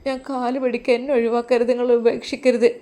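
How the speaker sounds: tearful begging. Acted. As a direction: beg him not to leave, close to tears. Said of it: "അവൾ വീണ്ടും അതാ കരയുവാൻ".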